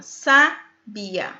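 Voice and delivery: "Sabia" broken up with a pause after Sa; syllable by syllable. Shown as a demonstration. Teacher counting three syllables, "Sabia" broken apart. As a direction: say "Sabia" in separated syllables, Sa... bia. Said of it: "Três sílabas".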